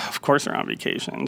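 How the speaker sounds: "Of course they're on vacation" muttered softly under the breath, unvoiced; sarcastic mutter. Finding the restaurant closed, muttering to himself under his breath. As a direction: roll your eyes and mutter it to yourself.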